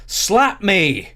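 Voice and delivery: imitated wrestler's shout, high and loud; loud yell. Interviewer re-enacts Ken Shamrock's line to camera, loud yell. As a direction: belt it out like an intense wrestler. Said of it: "as loud as he can".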